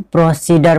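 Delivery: प्रोसीडर with a hard "d" in the last syllable; students' mispronunciation. Retold or imitated. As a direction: show the misreading प्रोसीडर, ending in "dar". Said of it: "ऐसा गलत है". (छात्रों जैसा गलत उच्चारण, प्रोसीडर के अंत में "डर")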